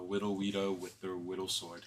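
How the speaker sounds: put-on soft baby talk, "Widow Rita" for little Rita. Cooing over child Rita, baby talk. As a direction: turn the L and R into W's, "whittle sword".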